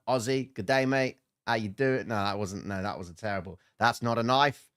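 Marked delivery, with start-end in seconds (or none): 0.1-2.1 playful attempt at an Australian accent. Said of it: "That's my Australian accent". 3.8-4.7 mock Australian movie-quote accent. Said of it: "That's my Australian accent".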